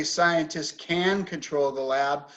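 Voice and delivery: "scientists can control the lab" with a full, stressed CAN. Shown as a demonstration. Teacher shows what we don't say, stressing CAN. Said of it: "Stress on can, but we don't".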